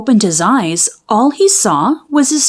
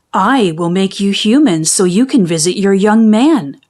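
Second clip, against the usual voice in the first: sea witch. Acted. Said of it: "Ursula said".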